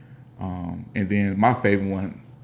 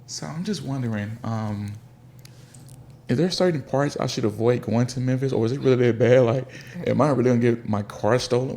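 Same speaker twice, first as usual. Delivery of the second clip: higher, hesitant worried visitor; nervous tourist; 4 semitones higher than usual. Retold or imitated. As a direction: ask timidly about danger. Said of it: "Or I hear like".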